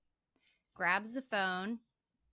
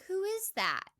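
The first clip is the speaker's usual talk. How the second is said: higher, worried question into the dark; nervous call; 11 semitones higher, 3 dB louder than usual. Retold or imitated. Imitating Claire calling toward the closet, high and uneasy. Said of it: "she's like".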